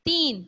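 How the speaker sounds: تین read out with a long ee; long ee sound. Shown as a demonstration. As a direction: hold the ee vowel in تین. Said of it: "جیسے میں پڑھوں گی".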